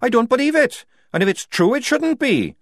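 a soldier raging against the Duchess; furious rant. A narrator's reading. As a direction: let the anger spill over.

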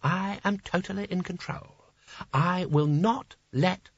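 high, soft, forced self-control; intoned. A narrator's reading. Sconner recites that he is in control, intoning. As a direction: intone it high, holding yourself in. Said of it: "he intoned".

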